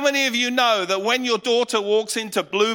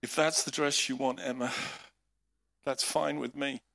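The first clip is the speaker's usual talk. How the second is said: reluctant calm; 6 semitones lower, 7 dB quieter than usual. Retold or imitated. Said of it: "out of my mouth came".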